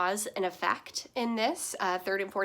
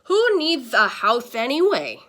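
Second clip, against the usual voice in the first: louder, hammed-up moaning grandpa; playful grandpa moan, louder; mock moan; 3 semitones higher, 9 dB louder than usual. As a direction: groan it out like a grumpy grandpa. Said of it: "he moaned".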